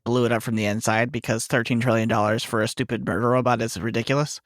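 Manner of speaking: usual speaking voice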